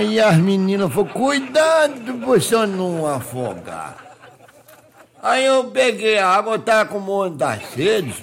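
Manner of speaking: rustic Minas yokel spinning a tale; naive country bumpkin, storytelling. Acted. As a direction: tell it like a simple countryman amazed by the sea. Countryman tells his beach mishap.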